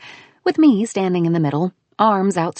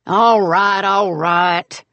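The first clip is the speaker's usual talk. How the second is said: croaking; 5 dB louder, much slower than usual. A narrator's reading. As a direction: croak it out grudgingly. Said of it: "he croaked".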